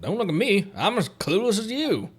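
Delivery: light, high, chirpy sidekick voice; high companion voice. Acted. Player voicing the game companion's lines, high and perky.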